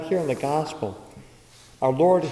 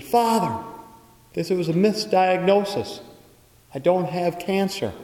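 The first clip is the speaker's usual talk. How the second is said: relieved joy; 5 semitones higher than usual. Retold or imitated. Relieved mother reports misdiagnosis.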